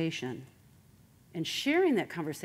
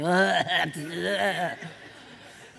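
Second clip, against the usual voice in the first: mock shudder of dread; hammed-up noise of aversion; exasperated groan. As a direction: groan as if you can't stand them. Dreads the annoying neighbor talking.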